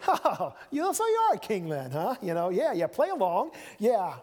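playing along with a lunatic, mockingly; mocking Pilate. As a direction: humour a madman with a sneer. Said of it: "If he really thought he was loony".

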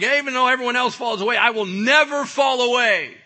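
high, full-voiced shouted boast; defiant vow. Peter insists to Jesus he will stay, defiant shout. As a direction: belt out the vow, hammering each word.

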